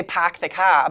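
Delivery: Boston accent with the r dropped in "car". Shown as a demonstration. Co-anchor joking about habits from school, Boston accent. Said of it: "bad habits from Boston".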